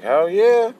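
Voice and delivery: put-on high, loud burst of kid enthusiasm; eager kid voice, starting loud; excited kids. Kids offered crayons, acted excitement.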